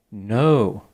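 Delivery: NO with a long, stretched O; drawn-out no. A narrator's reading. Narrator reads out the chatbot's typed message, a drawn-out "No". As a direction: hold the O in "No". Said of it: "three O's after it".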